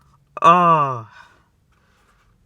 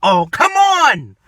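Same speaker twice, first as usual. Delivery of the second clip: frustrated; 4 semitones higher, 4 dB louder, slower than usual. Real, not acted. Frustrated waiting prank vlogger.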